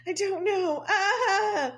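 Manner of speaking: laughing helplessly through the words; real giggling break. Real, not acted. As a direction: crack up while answering. Laughing at own craving.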